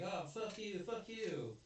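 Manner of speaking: retold hammed-up fuck-you; mock angry retort. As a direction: fire it back like he's been insulted. Man answers cop's insult, retold.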